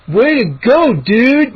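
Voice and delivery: loud, high congratulation; grinning. A narrator's reading. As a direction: cheer on a buddy. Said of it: "Moose grinned".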